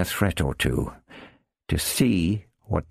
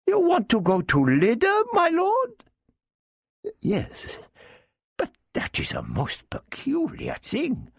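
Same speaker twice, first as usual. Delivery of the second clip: much higher, wheedling Arab character; Arab thief voice. Acted. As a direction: lift the voice high for the sly Arab.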